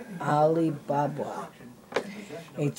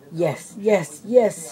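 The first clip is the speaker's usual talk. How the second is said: a touch of a snake's hiss, rising louder; 3 semitones higher, 5 dB louder, much slower than usual. A narrator's reading. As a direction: hiss the yeses like a greedy cobra. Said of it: "hissed Jafar".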